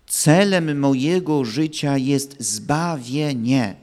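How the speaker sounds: slow, weighted "Celem mojego życia jest zbawienie"; firm emphasis. Shown as a demonstration. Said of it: "To trzeba mocno podkreślić". (powoli, z mocnym podkreśleniem: „Celem mojego życia jest zbawienie”)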